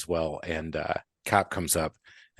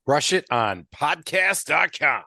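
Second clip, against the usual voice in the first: slow, higher announcer read of the web address; 6 semitones higher, 3 dB louder, much slower than usual. Shown as a demonstration. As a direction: boom it out like a radio announcer. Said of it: "I said it just like an announcer".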